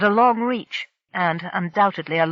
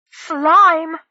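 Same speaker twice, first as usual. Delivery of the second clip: gasped; 9 semitones higher, 9 dB louder than usual. A narrator's reading. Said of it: "Zonzalo gasped".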